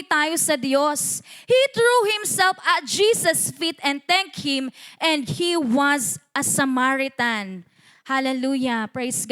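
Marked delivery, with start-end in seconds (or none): 1.5-7.6 slow, spaced-out Bible reading; scripture reading. Acted. Preacher reading verse fourteen to the church, slow declamation. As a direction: read the verse out slowly, word by word.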